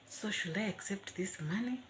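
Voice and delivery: unvoiced whisper of doubt; whispered thought. To herself about the money, a doubtful whisper. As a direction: whisper it like a private worry.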